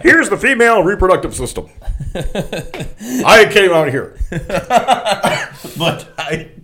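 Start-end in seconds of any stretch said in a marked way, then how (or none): 0.0-4.2 mock lecturer. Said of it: "I have a nice pull-down chart".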